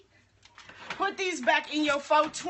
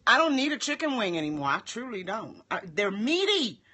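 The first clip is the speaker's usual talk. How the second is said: mouth full. Real, not acted. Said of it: "I should not be talking with my mouth full".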